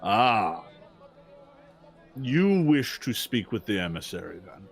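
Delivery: a hint of a formal, wary orc at the gate; orc guard. Orc guard answers the visiting party, lightly voiced and measured. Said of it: "the orc looks at you and says".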